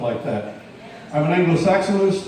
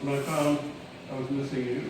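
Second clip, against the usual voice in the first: poem reading; 4 semitones higher than usual. Acted. Poet reading a love poem to an audience, poem reading. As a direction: recite with pauses, letting the last line drop.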